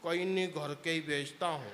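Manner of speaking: low, soft, with a laugh; sheepish punchline. Acted. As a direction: confess it sheepishly with a chuckle. Punchline reply of the groom.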